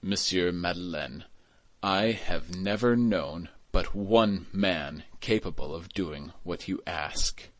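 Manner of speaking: slow, weighted "I have never known but one man"; emphasizing every word. A narrator's reading. Inspector gazing fixedly at Madeleine, each word of "what you ask" emphasized. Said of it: "emphasizing every word that he uttered".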